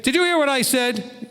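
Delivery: lightly voiced annoyed parent; scolding parent. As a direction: sound like a parent catching the kid out.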